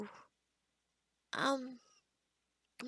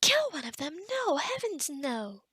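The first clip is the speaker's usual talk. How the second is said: appalled. Acted. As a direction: recoil at the very idea. Appalled at patient's suggested remedy.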